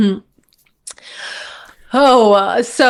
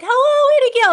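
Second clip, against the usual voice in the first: high, singing-out long-distance call; retold yell. Child calling from the highest point to someone far away, yelling. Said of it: "find the highest point ... and yell".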